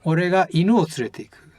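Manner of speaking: 犬 stressed, the sentence said quickly; 犬 said with a strong English-style stress. Shown as a demonstration. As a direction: lean on 犬 to show what is taken. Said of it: "and then we can say".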